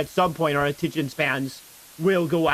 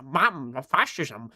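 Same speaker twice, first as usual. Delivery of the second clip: mock German accent; much slower than usual. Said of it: "German is like".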